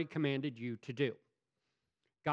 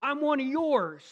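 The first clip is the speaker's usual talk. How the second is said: slow, high, drawn-out complaint; whiny protest; 10 semitones higher, 8 dB louder, slower than usual. Retold or imitated. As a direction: whine it like a sulking child.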